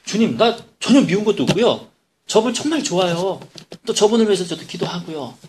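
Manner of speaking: protesting to God. Retold or imitated. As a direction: argue your case to the Lord, pitch up. Pastor protests to God in prayer. (주님께 높은 음으로 억울하게 항변)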